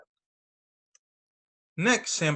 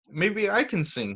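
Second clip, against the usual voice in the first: put-on hopeful child; 6 semitones higher than usual. Sam's hopeful thought.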